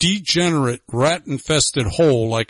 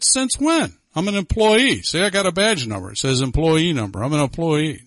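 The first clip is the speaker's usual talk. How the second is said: indignant disbelief; 3 semitones higher than usual. Retold or imitated. Retold own indignant reply to boss.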